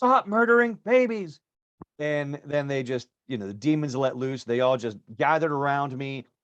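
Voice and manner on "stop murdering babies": put-on high, loud, ringing shout. Retelling shouting at a crowd in a lull: retelling a shout. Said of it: "I just shouted out again".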